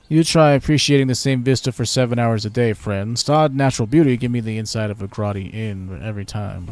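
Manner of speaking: grumbling British guard; British accent. Pretend. Guard grumbles to the stranger in a British accent. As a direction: complain like a fed-up British sentry. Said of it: "very British".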